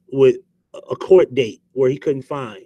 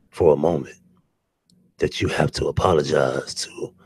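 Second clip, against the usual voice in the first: much lower, announcer-style radio host voice; 9 semitones lower than usual. Shown as a demonstration. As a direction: drop low and play a late-night radio host. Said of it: "Y'all wanna do my radio voice?".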